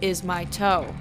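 very slow groaning voice at the door. Acted. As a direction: drag each word out like a ghost at the door. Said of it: "the voice groaned".

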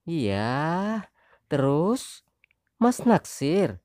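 high wife voice, teasing accusation; needling wife. Acted. Wife accusing husband of a crush, high needling voice. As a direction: poke at him as the jealous wife.

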